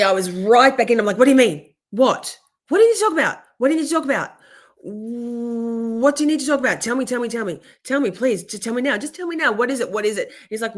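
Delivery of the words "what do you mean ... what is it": anxious pleading. Retold or imitated. Retelling her anxious pleading.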